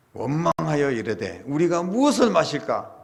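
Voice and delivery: mild mock grumble rising to a protest; complaining. Israelites grumbling at Moses over water, complaining. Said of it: "모세에게 막 원망을 했죠".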